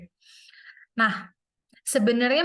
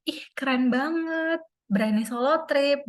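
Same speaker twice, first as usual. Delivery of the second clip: higher-pitched, impressed gush; imitated admiration; 4 semitones higher than usual. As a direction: mimic an admiring follower. Menirukan pesan kagum teman-teman. (menirukan nada kagum, lebih tinggi)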